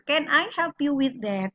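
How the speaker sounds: unhurried teacher model, falling towards "that"; falling intonation. Shown as a demonstration. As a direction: bring "with that" down. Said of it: "yang intonasinya turun".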